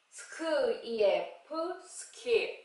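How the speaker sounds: "스크, 이에, 프" apart, then "스킵" drawn out; phonics blending. Shown as a demonstration. Teacher reading SK words, segmented then blended. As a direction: sound out each part before "스킵". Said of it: "에스케이 글자로".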